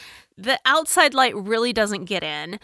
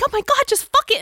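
exasperated; 4 dB louder, much faster than usual. Retold or imitated. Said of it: "And I'm like".

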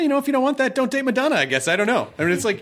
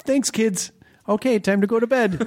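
mock parent signoff; 5 semitones higher than usual. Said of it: "thanks for listening, kids".

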